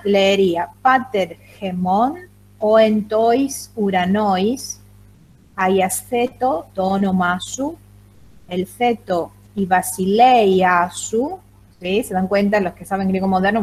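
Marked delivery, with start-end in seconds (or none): 0.8-11.4 slow, syllable by syllable, every vowel read separately as in Erasmian Greek. Shown as a demonstration. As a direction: spell out "pater gemón, oentois uranois" slowly with Erasmian vowels. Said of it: "si yo lo leo en la pronunciación erasmiana". (lectura lenta con pronunciación erasmiana)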